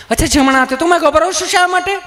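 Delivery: high, sweet nurse voice. Retold or imitated. Nurse coaxing a nervous patient, high and sweet. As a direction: coo like a gentle nurse.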